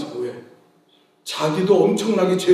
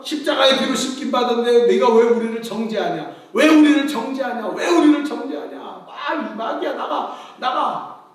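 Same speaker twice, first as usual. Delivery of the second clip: rebuking the devil; 3 semitones higher than usual. Retold or imitated. Pastor retells rebuking the devil.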